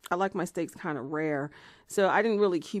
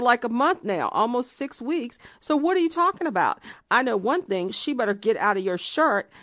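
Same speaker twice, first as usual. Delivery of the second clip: higher and louder, disbelieving outrage; shocked yelling; 5 semitones higher, 7 dB louder than usual. Retold or imitated. Woman yells at boyfriend who denies knowing her, shocked and loud. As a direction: yell it fast, stunned and furious.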